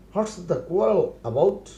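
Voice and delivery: very slow, each word laid out for learners; slow model phrase. Shown as a demonstration. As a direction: spell it out slowly for the class. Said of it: "teacher models English phrase". (ধীরে ধীরে শেখানোর ভঙ্গিতে)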